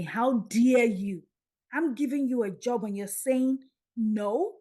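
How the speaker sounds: "How dare you" drawn out like a reprimand from above; stern rebuke. Retold or imitated.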